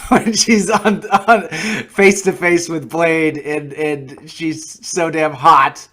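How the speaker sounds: laughing through the words, slowed down; giggling while gushing, drawn out. Real, not acted. Movie fan gushing about the actress, laughing.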